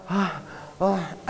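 demonstrated open-mouthed breath; mouth-breathing gasp. Shown as a demonstration. Teacher showing a congested nose, gasping through the mouth. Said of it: "I need to use my mouth to breathe".

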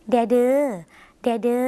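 แดเดอ with a long, drawn-out ending; drawn-out final word. Shown as a demonstration. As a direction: stretch the vowel at the end of แดเดอ as a request. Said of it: "จะต้องลากเสียงยาวในคำ".

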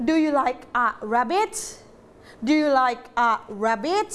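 yes-no question intonation; rising question tune. Shown as a demonstration. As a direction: end the question on a clear rise. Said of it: "หางท้ายประโยคเป็นไง? สูงขึ้น".

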